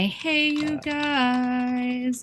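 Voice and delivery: drawn-out goofy greeting; slow "Hey, you guys". Pretend. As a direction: stretch it out like a movie catchphrase. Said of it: "let me do my".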